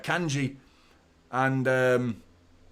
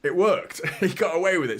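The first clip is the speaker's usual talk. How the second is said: higher, louder, laughing at it; giddy higher louder retelling with a laugh; excited disbelief; 4 semitones higher, 4 dB louder than usual. Real, not acted. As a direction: laugh in amazement as you retell it. Disbelief at Ederson's back heel.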